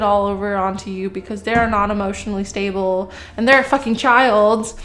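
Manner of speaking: rising into a loud, angry outburst; heated rant. Real, not acted. Reader venting to the viewer about an ex, heated and loud. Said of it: "I'm getting so heated".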